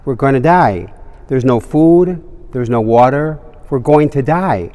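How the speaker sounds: loud, frantic cries of doom; panicked yelling. Acted. Shipwrecked man panics to his calm companion, loud yelling. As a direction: yell it like a shipwrecked man losing it. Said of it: "one of them started screaming, yelling".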